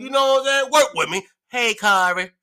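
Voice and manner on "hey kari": imitating gay coworker. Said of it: "That's how he sound".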